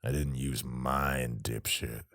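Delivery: slow scornful sneer. Acted. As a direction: sneer it with contempt. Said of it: "Ike sneered".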